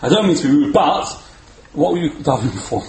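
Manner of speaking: polite American "I don't mean to be rude" opener; mock-polite American tourist asking; lightly American-accented question. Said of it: "you hear that in an American accent".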